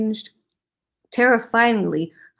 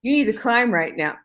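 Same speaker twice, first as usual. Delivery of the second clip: flustered; 5 semitones higher, faster than usual. Real, not acted. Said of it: "it says that".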